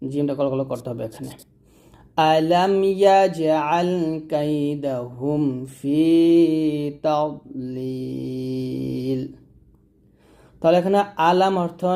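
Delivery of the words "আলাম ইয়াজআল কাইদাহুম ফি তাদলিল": slow melodic recitation, rising on the openings; Quran recitation. Shown as a demonstration. Teacher reciting the verse for students to repeat. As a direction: recite the verse slowly, chanting. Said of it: "আবার আমার সাথে".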